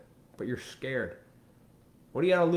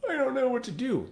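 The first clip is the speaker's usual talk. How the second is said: mock helpless whine; 13 semitones higher than usual. Mocking helpless person.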